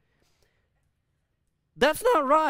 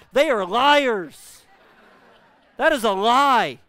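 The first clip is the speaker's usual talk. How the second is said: indignant outburst; 8 dB louder, slower than usual. Real, not acted. Dog trainers' claim debunked.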